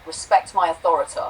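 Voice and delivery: lightly voiced loud cartoon kid; a hint of Cartman's bossy yell. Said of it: "Cartman yelling".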